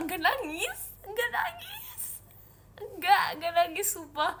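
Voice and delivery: high-pitched, squeaky protest; whiny denial. Real, not acted. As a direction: deny it in a rising, whiny squeal. Protesting teasing that she is crying.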